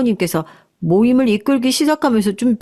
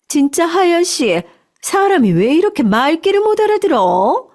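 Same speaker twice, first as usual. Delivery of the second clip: higher, pressed reproach; exasperated scolding; 7 semitones higher than usual. Acted. Manager's wife scolds Hayeon alone in the restaurant, exasperated.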